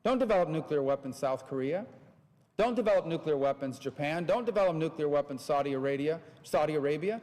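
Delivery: wag a finger at each country in turn; the US lecturing other nations, insistent; mock lecturing. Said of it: "going to you and saying".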